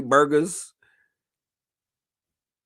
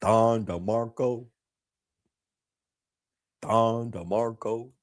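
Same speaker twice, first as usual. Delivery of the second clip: drawn-out name call; 7 semitones lower, 3 dB quieter, slower than usual. Pretend. Calling a name in put-on voice.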